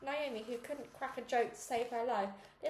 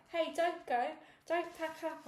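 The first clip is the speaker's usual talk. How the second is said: yelling; 6 semitones higher than usual. A narrator's reading. Girl yelling after the camera crew to stay. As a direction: yell to stop them leaving. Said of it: "I yelled".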